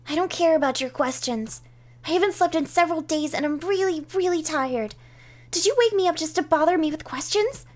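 a touch of tired indignation; irritated sleeper. Acted. Woken sleeper scolds the intruders.

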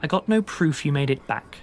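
lightly voiced Sasha, measured, with long pauses; Sasha, sincere letter. Sasha telling lost friends about her life since Rome, sincere.

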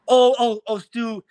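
imitated backpedaling rival. Rival caught out by the player, flustered backpedaling. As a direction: mimic someone hurriedly backing off.

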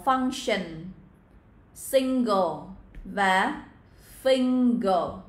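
"function", "single", "finger" with a held NG; ng sound. Shown as a demonstration. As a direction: slowly model "function, single, finger" through the nose on ng. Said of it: "các bạn sẽ là ngờ". (đọc "function, single, finger" với âm ngờ)

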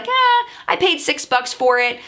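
mock-casual, who cares, it's fine; shrugging indifference. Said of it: "something where you would be like".

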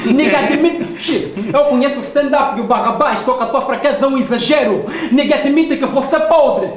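laughing. Real, not acted. Rapper laughs mid-battle.

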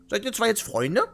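put-on high, girlish voice of a confused old woman; childlike old woman. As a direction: sing it out like a happy little girl. Shushu asks, girlish.

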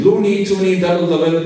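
high, loud, proud Canadian words; practicing Canadian phrases. Shown as a demonstration. Rehearsing Canadian slang on the way to the airport, proudly. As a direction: recite them like a proud new Canadian. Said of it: "practicing what I learned online of being Canadian".

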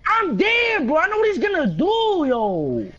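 raging gamer. Real, not acted. Raging at the game.

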